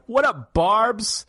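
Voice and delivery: drawled bro greeting, slow; slow cool greeting. Acted. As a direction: lean into a slow casual hello. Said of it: "I'm gonna walk up and be like".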